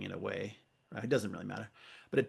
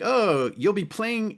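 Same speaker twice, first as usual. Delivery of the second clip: hammed-up film line; 9 semitones higher, 5 dB louder, much slower than usual. Mocking the film's dialogue.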